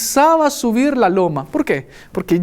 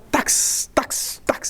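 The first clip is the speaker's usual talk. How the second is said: bolt clacks; 4 dB quieter, much slower than usual. Retold or imitated. Imitating door bolts.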